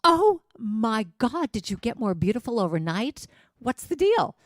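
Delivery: playful mock delight at the mirror. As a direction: gush at your own reflection. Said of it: "look at yourself in the mirror and go".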